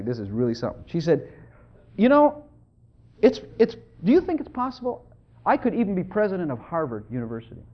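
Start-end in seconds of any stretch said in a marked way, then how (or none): 2.0-7.6 tentative question with halting restarts; hesitant start, pauses, then the big idea; imitated serious wondering. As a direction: act out a wife earnestly daring to wonder. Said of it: "She said it, you know, seriously".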